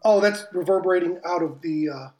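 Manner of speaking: echoing room sound. Real, not acted. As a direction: voice bouncing back with echo. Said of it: "I am so sorry for the echo".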